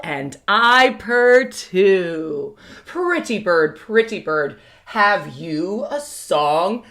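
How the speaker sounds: slow, sing-song animal poem read with playful animal sounds; reading a poem to children. Acted. Teacher reading an animal poem to her kindergarten class, slow and sing-song. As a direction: read it like a nursery rhyme to five-year-olds.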